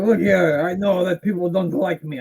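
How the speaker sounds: a bad mock French accent; mock French accent, half-hearted. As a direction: put on a clumsy French accent for the wrestler. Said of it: "that's a great French accent".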